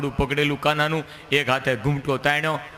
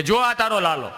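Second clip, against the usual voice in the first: gloating laugh; 7 semitones higher, 3 dB louder than usual. Acted. Gopi's imagined gloating.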